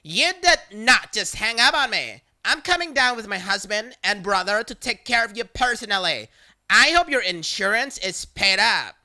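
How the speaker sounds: mild mock yell; retold scream. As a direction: threaten like a furious caller. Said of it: "screaming so loud that the speaker".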